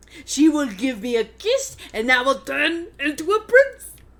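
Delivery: very loud, belted sing-song voice with big swoops. Doing the frog from the Swan Princess for the others: Jean-Bob voice. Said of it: "Jean Bob".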